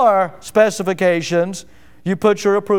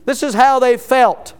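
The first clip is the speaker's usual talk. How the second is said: "felt" emphasized at the end of the phrase; stress on FELT; 3 semitones higher than usual. Real, not acted. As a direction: lean on the word "felt". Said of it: "I am emphasizing the word felt".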